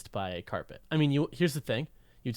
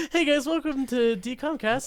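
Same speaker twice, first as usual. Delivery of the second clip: podcast host voice; 11 semitones higher than usual. Pretend. Mock podcast intro.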